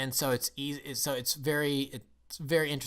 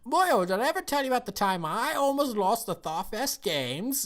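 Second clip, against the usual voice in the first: booming high Scottish brogue; hammed-up bad Scottish impression, loud and high; David Tennant; 11 semitones higher, 5 dB louder than usual. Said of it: "this is my bad David Tennant Scottish impression".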